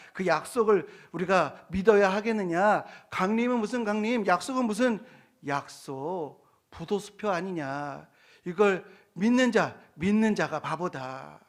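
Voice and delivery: loud, dismissive mock jeer; acted contemptuous challenge; scoffing. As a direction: dismiss the promise like a scornful doubter. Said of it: "이렇게 부정하고 조롱했다라는".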